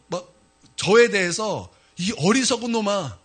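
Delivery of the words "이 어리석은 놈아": retold self-scolding, pitched higher; frustrated self-reproach. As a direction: scold yourself in exasperation, as retold. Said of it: "제 스스로의 답답함을 느껴서". (답답해하며 자책하듯)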